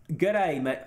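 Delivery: hammed-up Australian "down under" voice; terrible Australian accent. Streamer greeting viewers as Leroy, badly faked Australian accent. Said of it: "That's a terrible accent".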